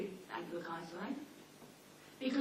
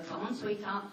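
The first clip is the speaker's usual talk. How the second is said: tender coaxing. Shown as a demonstration. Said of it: "it's just instinctive".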